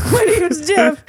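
high, slow comic alien; goofy put-on alien introduction. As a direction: draw out the name in a silly alien voice. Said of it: "And they go".

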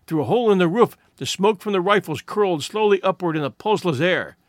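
usual speaking voice

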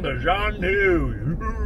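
drawn-out mock pronunciation of Zhanu; mock the name slowly. Bubba mocks the doctor's word, slowly drawing out Zhanu. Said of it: "Are you mocking Zorth".

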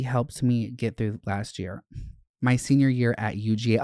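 lively letter read, words tumbling fast at times; reading a letter aloud. Acted. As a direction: read the fan note aloud with gusto. Reads fan's note aloud.

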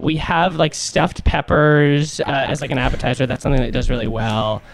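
put-on college girl voice. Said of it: "try to talk like a college girl".

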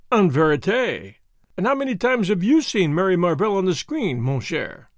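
lightly voiced Belgian detective, smug; a hint of a self-satisfied foreign sleuth; Poirot voice. Poirot speaks.

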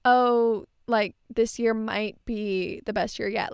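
unsure, hedging tone; doubtful. Retold or imitated. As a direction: say it like you doubt it. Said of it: "We're not gonna say".

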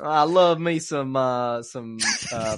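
put-on lightly drawn-out Southern accent. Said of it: "that sounds".

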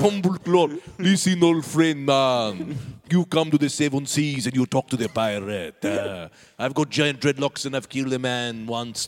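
loud, hammed-up pirate threat; big put-on pirate voice; boasting pirate. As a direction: boast like a pirate of the Seven Seas. Pirate threatens in improvised sketch.

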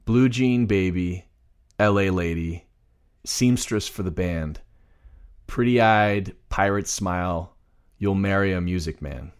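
measured, unsung reading of lyrics; plain spoken lyrics. Shown as a demonstration. Co-host reads song lyrics as examples, plain recitation. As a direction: recite the lyric line by line, with pauses. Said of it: "it's so plain".

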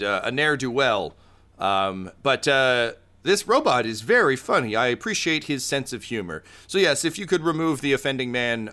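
Goro, politely thankful with an edge of threat; lightly voiced Goro. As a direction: lightly play a courteous crime boss. Game master voices Goro.

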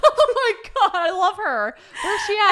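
loud, high-pitched real delight; delighted outburst. Real, not acted. Cohost loving the old passenger's line, delighted outburst. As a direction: burst out adoringly, voice shooting way up.

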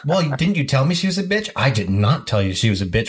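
a touch of syrupy sweetness, pitched a bit up; butter them up knowing someone's listening; sugary fake kindness. Teen on three-way call, lightly sweet fake kindness. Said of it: "showering the other person with kindness".

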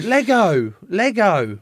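high, loud wailed retelling; mock toddler cry, high and loud; imitated crying toddler. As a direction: wail it like an upset two-year-old. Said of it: "then he kept going".

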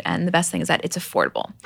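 ordinary talk

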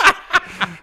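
breathy laughter; high laugh. Real, not acted. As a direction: crack up laughing. Laughing at bit.

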